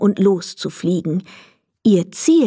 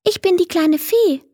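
high, kind fairy voice; friendly; 10 semitones higher than usual. A narrator's reading. The fairy introduces herself to little Emil, friendly. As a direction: greet the boy gently. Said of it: "meinte sie freundlich".

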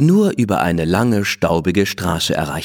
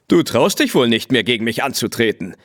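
teasing; 2 semitones higher than usual. Acted. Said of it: "der sie deswegen natürlich aufzog".

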